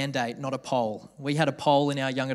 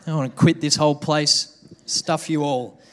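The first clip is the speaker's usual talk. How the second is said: louder fed-up rant, ending in a laugh; mock exasperation; 6 dB louder than usual. Student embarrassed by the teacher, mock angry huff. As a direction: huff it out half joking. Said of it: "I'm like".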